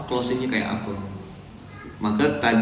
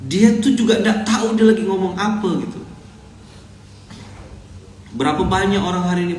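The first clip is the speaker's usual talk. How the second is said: ordinary talk, nothing marked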